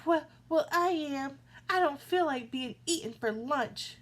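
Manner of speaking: frightened middle goat. A narrator's reading. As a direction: blurt it out scared.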